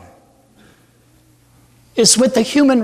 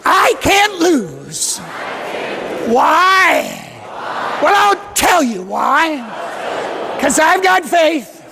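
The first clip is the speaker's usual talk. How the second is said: more energy; 2 semitones higher than usual. Shown as a demonstration. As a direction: pump up the chant for the crowd. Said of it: "a little bit more energy".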